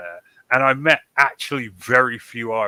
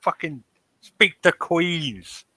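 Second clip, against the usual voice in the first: baffled retort; 6 semitones higher, slower than usual. Retold or imitated. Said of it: "You're just like".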